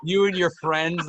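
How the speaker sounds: high, loud, words broken by laughter; laughing. Real, not acted. Friend retelling a funny horse meme, laughing through it. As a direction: crack up while getting the words out.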